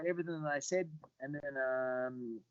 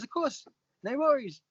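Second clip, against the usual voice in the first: upbeat agreement; 11 semitones higher, 4 dB louder than usual. Retold or imitated. Retold easy yes from Joe.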